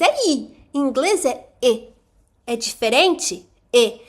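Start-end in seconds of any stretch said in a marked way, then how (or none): 0.3-0.7 "I" said as a short lax English i. Shown as a demonstration. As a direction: show the short English i sound in "I". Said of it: "O I não faz igual em português". ("I" curto do inglês)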